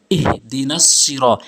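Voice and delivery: ইহদিনাস with h from the bottom of the throat; deep-throat h. Shown as a demonstration. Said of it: "এই হাটি হলকের শুরু থেকে উচ্চারণ করবেন".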